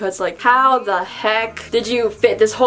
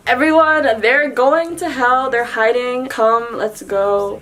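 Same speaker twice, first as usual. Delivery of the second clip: mock alarmed call; 2 semitones higher than usual. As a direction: raise the alarm, lightly acted. Shippo alerts the others, retold.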